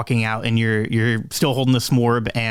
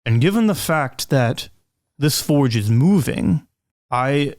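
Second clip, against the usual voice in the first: Edward explaining; slower than usual. Acted. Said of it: "Edward ... says".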